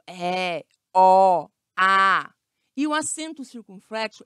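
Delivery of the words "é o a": É, o, a as open vowels, held one by one. Shown as a demonstration. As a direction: say É, o, a loud and wide open. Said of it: "ele é aberto".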